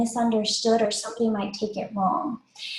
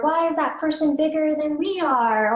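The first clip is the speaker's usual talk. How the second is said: put-on curious young child; 5 semitones higher than usual. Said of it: "when they're really young".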